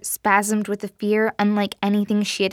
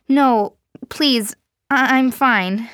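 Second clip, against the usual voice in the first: louder and higher, rushed pleading; panicked pleading; 4 semitones higher, 6 dB louder, slower than usual. Acted. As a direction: beg in a panic, voice climbing. Jean panicked refusal.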